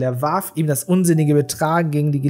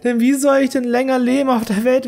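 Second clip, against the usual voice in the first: high, tearful pleading outcry; a sister sobbing at brother and lover about to duel; sobbing cry; 8 semitones higher than usual. A narrator's reading. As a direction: throw yourself between them, crying out. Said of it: "Schluchzend rief sie laut".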